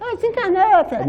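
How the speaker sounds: very high, posh, refined, chic voice. Imitating an audience member's voice announcing a death, in his ear. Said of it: "é uma desencarnação chique".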